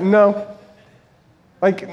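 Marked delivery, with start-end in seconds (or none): 0.0-0.5 put-on defiant child's no. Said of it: "he says it just like that".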